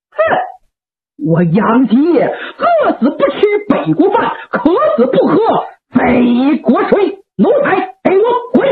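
带着冷笑, 越说越高, 最后怒喝"滚"; 老将军冷笑着赶走投敌的儿子. Acted. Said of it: "老令公一阵的冷笑". (冷笑着斥骂)

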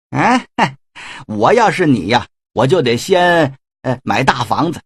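sly villain, sarcastic flattery with a cackle; mocking Shen Gongbao. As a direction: needle him with fake praise.

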